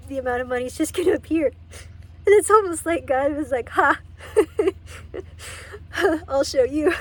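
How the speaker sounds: real crying, voice breaking into laughter and sobs; tearful laughing through the words; breaking into tears. Real, not acted. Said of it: "Sorry, I was trying not to cry".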